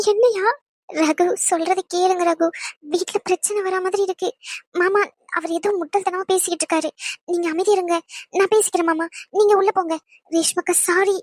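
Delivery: pitched high, begging him to listen; high anxious pleading. Acted. Wife begging Ragu and uncle to stop arguing, anxious pleading. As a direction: plead fast and worried to calm everyone.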